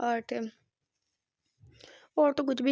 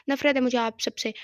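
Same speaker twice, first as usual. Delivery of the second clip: firm angry outburst, a little louder; 4 dB louder than usual. Acted. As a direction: spit out her hatred. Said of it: "परी ने गुस्से से बुरहान को कहा".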